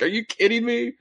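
high "Are you kidding me?"; half-laughing disbelief; incredulous. Retold or imitated. Retelling his reaction to the friend's tease. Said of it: "I was like".

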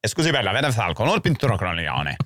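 mock Italian phrase, lightly put on; hammed-up fake Italian. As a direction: fake some Italian words. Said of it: "Italian accent is punching lateral".

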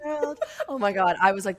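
ordinary talk, nothing marked

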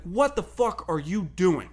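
slow, mock-heated challenge in a put-on voice; chirping at him. Young coach chirping at a player who won't move, mild mock anger. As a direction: needle him with a light imitation of a coach. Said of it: "starts kinda chirping at him".

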